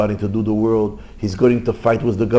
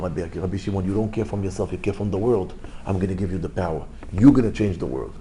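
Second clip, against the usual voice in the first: softer retold divine reply; calm assurance; 4 semitones lower, 5 dB quieter than usual. God granting Rabbi Shimon the power, quiet assurance. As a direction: grant it quietly, in a low-key voice. God's reassuring answer to the rabbi.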